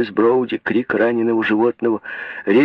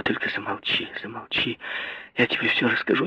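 much softer, whispered begging; pleading whisper; 9 dB quieter than usual. A narrator's reading. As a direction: hush her, pleading. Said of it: "умоляла Мэри".

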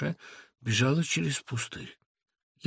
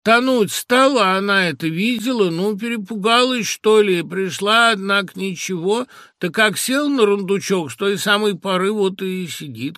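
high, loud, lilting answer; sing-song old woman; 7 semitones higher, 7 dB louder than usual. A narrator's reading. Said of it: "отвечал та нараспев". (старушечьим говором нараспев)

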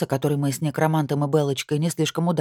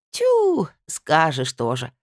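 dismissive drawn-out scoff; disappointed drawl; much slower than usual. Acted. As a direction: drag it out, unimpressed. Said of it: "разочарованно протянула".

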